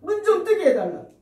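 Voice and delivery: high, loud begging; begging cry. Acted. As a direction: plead to have eyes opened. Blind men begging for sight. (높고 크게 애원하며)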